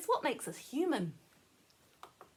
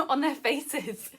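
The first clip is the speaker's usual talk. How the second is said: amused; 3 semitones higher, 7 dB louder, slower than usual. Real, not acted. Laughs at own slip.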